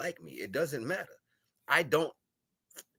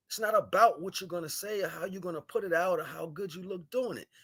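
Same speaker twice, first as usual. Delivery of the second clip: angry rant; 5 semitones higher than usual. Real, not acted. Preacher scolding his mocking viewers, angry and raised. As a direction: tear into the viewers who laugh.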